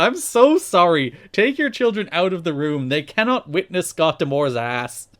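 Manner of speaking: loud, high mock apology; slow, hammed-up commentator's plea; Don West. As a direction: imitate an overwrought announcer begging parents. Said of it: "He also apologizes".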